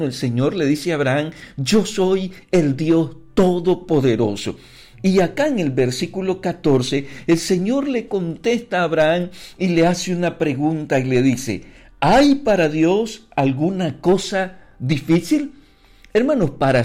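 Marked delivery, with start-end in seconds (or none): 1.6-4.6 slow, word by word quotation; solemn declaration. Retold or imitated. Preacher quoting the Lord to Abraham, slow solemn declaration. 12.0-15.5 slow, measured question with pauses; solemn rhetorical question. Retold or imitated. The Lord answering Abraham with a question, slow and solemn.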